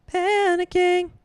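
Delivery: hammed-up, drawn-out "Panicking"; theatrical fake panic; mock panic. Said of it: "I'm panicking".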